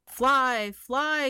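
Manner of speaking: high, loud call. Acted. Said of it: "called the birds to the bees".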